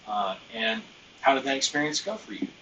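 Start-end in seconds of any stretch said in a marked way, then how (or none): 1.2-2.5 light tone. Shown as a demonstration. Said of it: "You can hear it in my tone".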